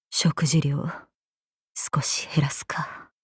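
low, hushed aside; muttering to oneself. Acted. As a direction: mutter it privately, almost under your breath. Muttering to herself about her weight. (小声の独り言)

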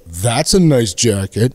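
slow, drawn-out mock praise; deliberately stretched, sarcastic compliment. Shown as a demonstration. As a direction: say it meaning the opposite. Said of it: "I'm saying the opposite".

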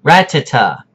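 Ratata as RAT-a-ta; RAT-a-ta again, stressed first; correct ratata. Shown as a demonstration. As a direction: clean RAT-a-ta. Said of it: "When I say ratata".

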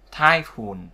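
"Typhoon" stressed on -phoon; careful "Typhoon", final syllable stressed; stress on second syllable. Shown as a demonstration. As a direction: put the weight on the end of "Typhoon". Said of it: "phone luôn, ấn vào phone".

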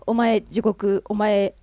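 slow, loud verdicts "お前天国"; judging Enma. Retold or imitated. Enma sorting the dead, slow mock-stern verdicts. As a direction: hand down judgment like Enma. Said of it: "みたいな感じで判断するじゃないですか".

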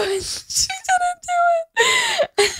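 laughing while quoting. Retold or imitated. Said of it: "laugh cry".

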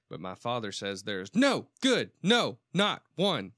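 loud, drawn-out Tennessee preacher cry; excited Southern preacher. Retold or imitated. Podcast host mimics a sermon clip for his cohost, excited Southern preacher. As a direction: preach it like a fired-up Southern pastor. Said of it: "he's kinda talking like this, and then he gets all excited".

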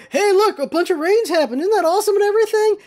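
high-pitched gushing imitation; mock excitement. People online sharing rain footage, mock-excited. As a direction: chirp it, speeding up at the end.

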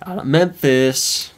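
slow, drawn-out, half-hearted announcement; unenthused. Real, not acted. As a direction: announce the big news without much excitement. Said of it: "You don't sound too excited about it".

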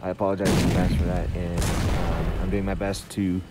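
muffled behind a face mask; through a face mask. Real, not acted. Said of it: "excuse me for my voice as I'm talking behind the face mask".

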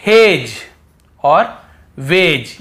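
हेज and वेज said loud, d silent; clear model words. Shown as a demonstration. Teacher modelling हेज और वेज. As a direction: call out हेज, then stretch वेज slowly. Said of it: "डी को हम नहीं पढ़ रहे".

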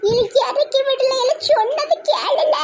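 high, laughing squeal of a scold; squealing half-laughing plea. Acted. Mother-in-law scolding, laughing.

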